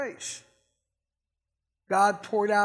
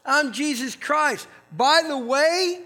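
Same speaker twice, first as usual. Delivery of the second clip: higher, louder, slowing on the punchline; Jesus with humor; 6 semitones higher, 4 dB louder than usual. Retold or imitated. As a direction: deliver it like a wry joke. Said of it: "he goes".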